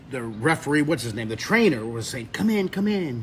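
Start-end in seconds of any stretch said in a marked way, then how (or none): 2.3-3.2 higher-pitched Australian call; imitated Aussie accent. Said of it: "you know, with that Australian accent".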